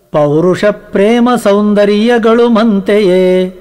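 slow, measured chant of a verse; verse recitation. Acted. A preacher reciting the Kagga verse to his listeners, chanted. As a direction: intone the poem reverently.

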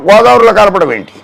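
ordinary talk, nothing marked

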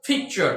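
"পিকচার" with a puffed p; aspirated P. Shown as a demonstration. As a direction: release the p of "পিকচার" on a burst of air. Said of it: "এইভাবে উচ্চারণ করতে হবে".

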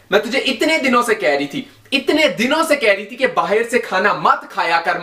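loud nagging rant; scolding mother. Acted. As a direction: nag him hard. Indian mother scolds sick child.

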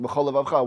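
"b'chol levavcha" slurred into one word with no break; run together. Shown as a demonstration. Teacher demonstrating the wrong, run-together reading. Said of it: "one big word".

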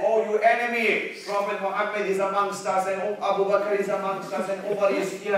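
a moderate shout back at the enemy; screamed out. Acted. Umar can't hold back and answers the enemy, screaming out. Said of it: "He screamed out".

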